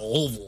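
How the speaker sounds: "Louisville" mumbled low as "Lovl"; "Louisville" as "Lovl", peanut butter stuck in the mouth; mouth full of peanut butter. Shown as a demonstration. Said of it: "like you have peanut butter stuck in the roof of your mouth".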